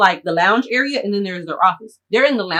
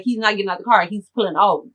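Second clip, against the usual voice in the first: ordinary delivery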